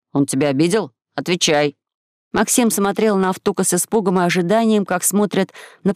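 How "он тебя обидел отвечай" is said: demanding Gumgam. Acted.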